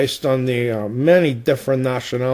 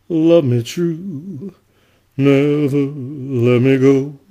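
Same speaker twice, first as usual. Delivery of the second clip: Impression of a famous singer. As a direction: croon like a classic rock-and-roll singer. Singer impression, then singing.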